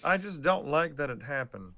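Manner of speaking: lightly put-on puppet voice; a hint of cartoon frog voice; Kermit. Fan voicing an unhappy player, light Kermit impression. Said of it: "default to the Kermit voice".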